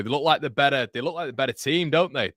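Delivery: commentator's voice climbing with the attack; rising excitement. Real, not acted. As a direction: build it up as the home side pushes. Commentator rising as Sunderland press.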